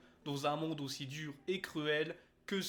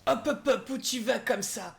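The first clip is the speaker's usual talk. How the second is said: teasing scold; 6 semitones higher, 5 dB louder than usual. Pretend. Narrator scolds someone returning.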